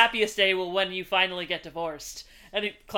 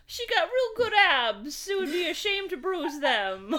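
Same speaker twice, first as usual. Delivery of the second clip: mock smitten voice; 9 semitones higher than usual. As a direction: gush about her abs. Continuing the mock voice.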